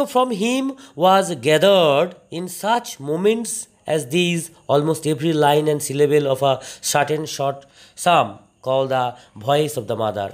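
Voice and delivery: each English word read out very slowly for the class; teacher reading the passage aloud slowly so students can follow; slow dictation reading. Shown as a demonstration. Teacher dictating a passage to students, very slow.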